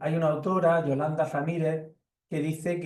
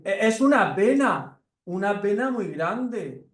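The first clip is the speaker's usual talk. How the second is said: higher, slow little mouse; 6 semitones higher than usual. Acted. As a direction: recite the remedies patiently as the mouse. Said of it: "Y el ratón dice".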